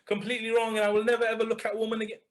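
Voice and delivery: hammed-up tearful penitent, high and loud at first; mock a guilt-stricken convert swearing off women; loud, overdone confession that speeds up toward the end; mock over-the-top repentance. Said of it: "That's what you want?".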